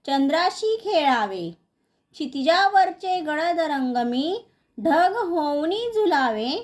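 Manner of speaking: measured, singsong verse reading; lilting schoolroom poem reading; poem recitation. Acted. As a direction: recite line by line, drawing out the line endings.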